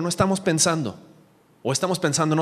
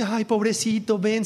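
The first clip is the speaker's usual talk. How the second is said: higher-pitched cooing sympathy; pitying mother; 6 semitones higher than usual. Retold or imitated. Mother taking crying baby from father, mock pity. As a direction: mimic a mother fussing over her baby. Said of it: "su mamá viene y me dice".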